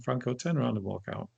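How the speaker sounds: soft, calm inner voice; quietly steady, like a voice in your head. Retold or imitated. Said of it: "really calm voice just went".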